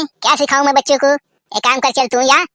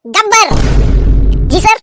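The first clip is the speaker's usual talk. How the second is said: angry principal; 3 semitones higher, faster than usual. Acted. Principal scolding the teacher about the laughter, angry. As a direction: scold him for the noisy class.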